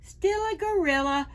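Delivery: lively, sing-song picture-book reading; reading to children. Acted. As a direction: read it to a room of preschoolers, big and bright. Reads picture book to preschoolers.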